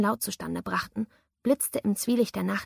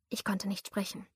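whispered fear; 8 dB quieter than usual. A narrator's reading.

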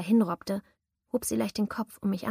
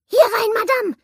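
much higher and louder, piping call from the shadows; high shrill man's call; 14 semitones higher, 11 dB louder than usual. A narrator's reading. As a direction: call her in with a thin shrill voice. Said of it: "die hohe, schrille Stimme eines Mannes".

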